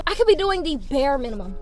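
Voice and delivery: breathless from just talking; out of breath. Real, not acted. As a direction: talk short of breath. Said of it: "I'm out of breath".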